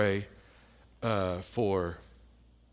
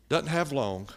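higher-pitched blunt imitation; short, to the point; 4 semitones higher, 4 dB louder than usual. Wife telling visitors about her sick husband, curt imitation. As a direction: state it baldly, without softening. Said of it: "It's all just short, to the point".

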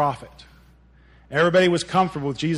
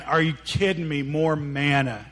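mock fed-up complaint; gripe, dragging out the last words; put-on weary disbelief; grumbling. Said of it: "they're just grumbling".

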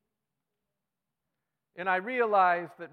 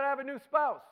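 high, louder delighted wife; excited wife; 11 semitones higher, 6 dB louder than usual. Retold or imitated. Pastor quoting a delighted wife, high gushing voice. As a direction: gush it like a thrilled wife.

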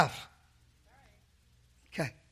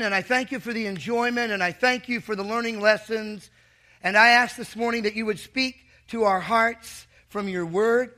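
earnest pastor's prayer; opening prayer from the pulpit. Acted. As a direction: pray over the congregation, sincere and steady. Leads the congregation in prayer.

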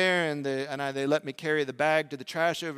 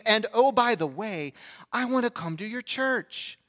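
slow, higher imitation of the boy; neighbor kid; 5 semitones higher, slower than usual. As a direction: replay a kid's request, drawn out and high. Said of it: "second thing out of his mouth".

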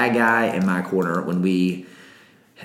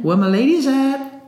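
high, loud hype shout; hype call; 4 dB louder than usual. Pretend. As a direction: shout it out like a party host. Calling out to the ladies.

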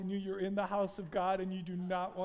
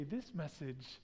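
hushed prompt; 6 semitones lower, 7 dB quieter than usual. Shown as a demonstration. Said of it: "touch the person next to you and say".

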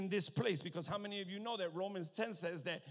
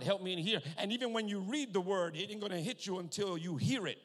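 raised, emphatic pulpit voice; forceful preaching; 3 semitones higher, 6 dB louder than usual. Real, not acted. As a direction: press the point on the congregation.

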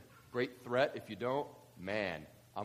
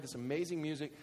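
normal talking voice

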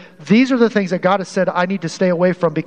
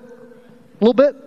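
slow, higher, pointed rhetorical question; 6 semitones higher, 3 dB louder, slower than usual. Real, not acted. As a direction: drag it out, pressing the point. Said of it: "can you see the mixed message".

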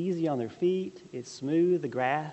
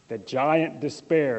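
slow dramatic; 5 dB louder, slower than usual. Shown as a demonstration. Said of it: "I wish I could say that in a deep voice".

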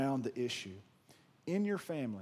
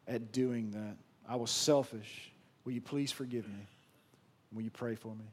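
sincere apology to wife; 4 semitones lower than usual. Pretend. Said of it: "and said".

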